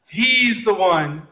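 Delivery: lightly acted slow swoon; mock lovestruck girl. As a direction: imitate a smitten schoolgirl, drawing the words out. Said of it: "But every one of them".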